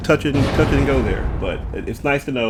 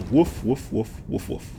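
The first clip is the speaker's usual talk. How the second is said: dog barking; 7 dB quieter, slower than usual. Pretend. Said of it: "unless the dog is bark".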